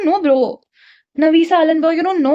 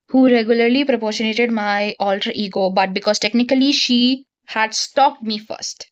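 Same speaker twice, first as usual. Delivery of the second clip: lower, even book-reading voice; reading aloud; 4 semitones lower than usual. Acted. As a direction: read the passage out evenly. Reads the novel aloud.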